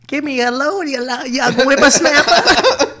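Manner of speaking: put-on high, slow old lady voice; granny voice. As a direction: croak it like a randy grandma. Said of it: "What'd she say?".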